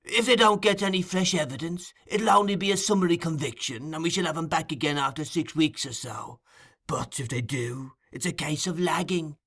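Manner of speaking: Fagin's voice. Acted. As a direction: purr it like a sly old receiver of stolen goods. Fagin explaining to Bolter.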